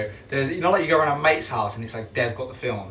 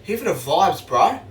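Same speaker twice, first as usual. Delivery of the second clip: higher-pitched, badly faked Scouse; mock Scouse catchphrase, unsure of the accent; attempted Scouse accent; 4 semitones higher, slower than usual. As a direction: have a playful go at a Liverpool accent. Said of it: "I don't know what accent that is".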